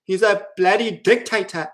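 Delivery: shrill mock horror at a tyrant; mocking critic. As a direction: parody a scandalized critic. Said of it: "Mark Driscoll was like".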